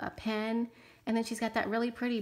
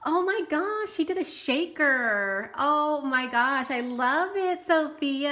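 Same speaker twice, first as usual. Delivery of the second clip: high, louder, drawn-out gushing; thrilled delight; 5 semitones higher, 4 dB louder, slower than usual. Real, not acted. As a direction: gush slowly over a wonderful surprise. Thrilled on seeing the gift card.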